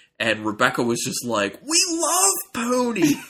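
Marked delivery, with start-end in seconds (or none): 1.6-3.2 acted, overdone shout, very high pitch. Retelling how she reacted to being offered Pony Pills, in an over-the-top yell. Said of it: "kind of over the top".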